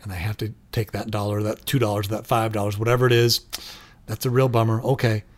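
soothingly sorry, no anger at all; calm and sympathetic. Pretend. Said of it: "you can be as calm as a spring".

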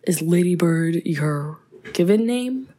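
slow, deliberate imitation of a California accent; imitated American accent. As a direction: quote it slowly in a mock Californian accent. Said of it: "I love Saoirse Ronan's American accent".

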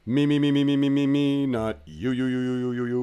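loud high singsong me me me; mocking chatterbox. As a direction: parrot it like a blabbermouth. Mocking a talkative pair.

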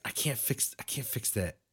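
stoned and sleepy; words loose from being high. Real, not acted. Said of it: "I'm high as fuck right now".

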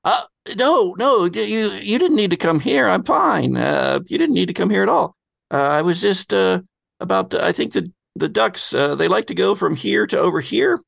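high, flustered rambling voice; nervous Andy. Acted.

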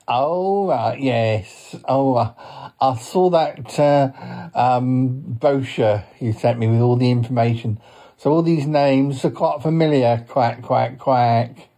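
mild cartoon duck, politely knowing; talking duck with closing quacks; lightly voiced duck. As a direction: chat as a well-briefed duck. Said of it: "he is a duck".

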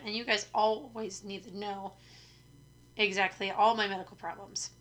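dry mock-serious sarcasm; deadpan sarcastic aside. Real, not acted. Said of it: "That was sarcasm".

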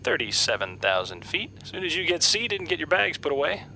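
quiet, distant intercom voice; captain on the PA system; pilot announcement. Acted.

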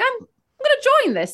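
laughing, fast, gleeful decision; eager and laughing. Retold or imitated. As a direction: blurt it out, thrilled to tag along. Eagerly joining the mob.

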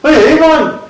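loud, high hammed-up Geordie holler; Geordie accent. Shown as a demonstration. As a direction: shout it in broad mock Geordie. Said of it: "I can do a Geordie accent".

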